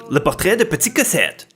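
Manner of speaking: title said quickly in native French pronunciation; French accent. Real, not acted. Host announces the anime title to viewers, French accent. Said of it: "try to mask my French accent".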